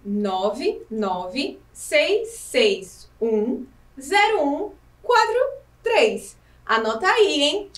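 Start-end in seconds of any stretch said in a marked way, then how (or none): 0.0-6.4 digits read very slowly; dictating a number. Shown as a demonstration. Teacher dictates the WhatsApp number for pupils, slowly. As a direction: read each digit slowly for note taking. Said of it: "O número é".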